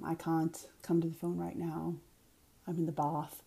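upper-class Boston, somewhat British sounding; lightly put-on Kennedy Boston accent; a hint of British-sounding Boston Brahmin accent. Shown as a demonstration. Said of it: "That's sort of the Kennedy accent".

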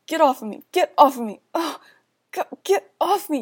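loud desperate shout. Acted. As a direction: yell it, fighting him off. Shoving attacker away.

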